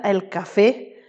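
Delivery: "café" stressed on FÉ, ca-FÉ; stress on final E. Shown as a demonstration. Spanish teacher contrasting with árbol, final E stressed in "café". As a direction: lean on the last syllable of "café". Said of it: "accentué sur le dernier E".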